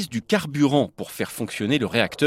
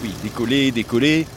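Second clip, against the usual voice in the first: sarcastic; 3 semitones lower than usual. Shown as a demonstration. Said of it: "si on veut".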